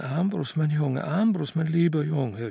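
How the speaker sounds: mildly exultant cry; jubilant. Acted. Aunt rushing in to hug her nephew, jubilant. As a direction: gush over him with joy. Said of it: "jubelte sie und riss ihn an sich".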